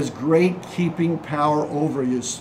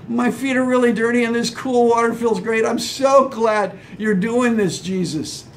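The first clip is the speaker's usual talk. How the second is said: mock contentment; 3 semitones higher than usual. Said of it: "what was the disciples' reaction".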